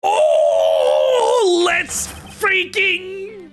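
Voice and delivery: real, high, drawn-out hype yell; excited shouting. Real, not acted. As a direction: scream with delight. Player thrilled by plot twist.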